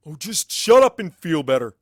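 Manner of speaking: teasing exasperation. Acted. Starswirl teasing affectionately.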